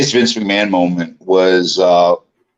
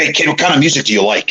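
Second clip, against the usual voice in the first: lightly voiced boss, quick and higher; Vince McMahon; 4 semitones higher, faster than usual. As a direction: question a newcomer briskly, light impression. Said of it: "he was talking to me".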